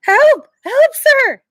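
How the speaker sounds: high, loud calls for help; calling for help. A narrator's reading. Jack calling up to the stranger, loud and high. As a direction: call up to the face above. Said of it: "Jack said".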